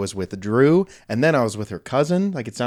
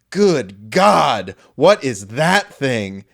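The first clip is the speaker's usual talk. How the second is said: mock shocked gasp; 3 dB louder, much slower than usual. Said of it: "you went".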